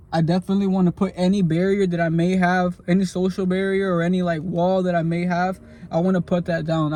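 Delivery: talking while chewing gum. Real, not acted. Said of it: "I got this gum in my".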